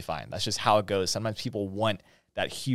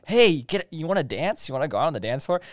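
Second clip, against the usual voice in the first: pushy DJ; 6 semitones higher, 5 dB louder than usual. Retold or imitated. Pushy DJ urging guests to dance.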